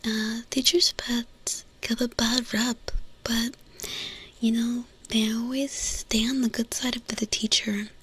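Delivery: breathy ASMR murmur; ASMR whisper. Acted. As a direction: whisper it close to the mic.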